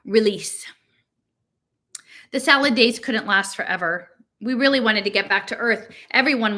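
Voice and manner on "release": voiceless whispered title. A narrator's reading. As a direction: breathe the word out as a whisper.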